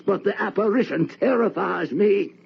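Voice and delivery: high trembling terror. Acted. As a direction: shrink from the ghost. Terror at the apparition.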